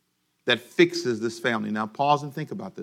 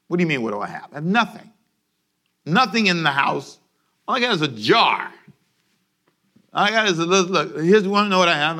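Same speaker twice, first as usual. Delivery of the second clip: a hint of a pleading widow, higher and louder; desperate widow; 3 semitones higher, 3 dB louder than usual. Widow answers the prophet with mild pleading. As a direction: voice the widow holding up her jar.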